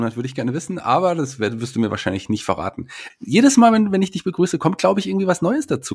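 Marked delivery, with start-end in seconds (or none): 3.2-5.9 high, loud and amused; bubbling over with amusement; excited. Real, not acted. Amused reaction to a new greeting.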